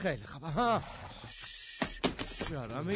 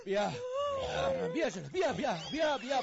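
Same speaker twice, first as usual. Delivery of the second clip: high, raised coaxing calls; urgent coaxing. Acted. Urging the horse toward the water, raised urgent coaxing. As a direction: coax the horse forward urgently.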